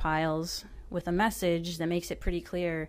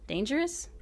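usual speaking voice

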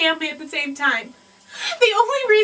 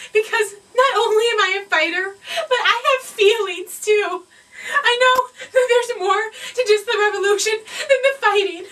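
overacted crying through the words, a bit higher; hammed-up tearful gush; 3 semitones higher than usual. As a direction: fake a teary confession with laughs. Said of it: "I get really emotional".

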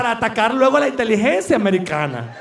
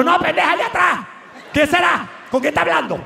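inner voice; 5 semitones higher than usual. Retold or imitated. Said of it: "Y uno por dentro".

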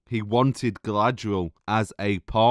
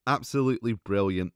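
sarcastic praise; 2 semitones lower, 4 dB quieter, faster than usual. Real, not acted. Mocking the death scene.

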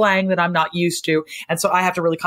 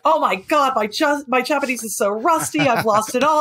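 mock panic; 8 semitones higher than usual. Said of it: "I'll be like".

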